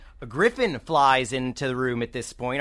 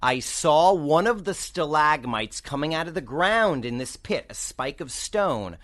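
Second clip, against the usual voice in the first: lightly voiced griffin, slow and suspenseful; griffin reporting back; slower than usual. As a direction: draw out the scout's report, lightly in character. Game master voices the griffin.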